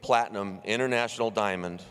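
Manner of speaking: loud, fast emcee build-up; booming introduction over the noise; announcer hype. Real, not acted. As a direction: pump the crowd up for the entrance. Host introducing guest over crowd.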